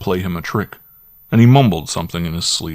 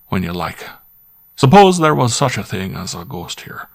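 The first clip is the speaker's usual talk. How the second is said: squire pressing his butler, higher and louder, edgy; half-angry squire; 3 semitones higher, 4 dB louder than usual. Acted. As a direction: grumble and coax by turns, a country squire with a temper. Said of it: "but not quite so angrily as before".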